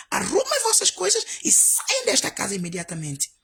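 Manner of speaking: high, loud eviction command; angry order. Retold or imitated. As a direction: order them out at once. Order to leave the house.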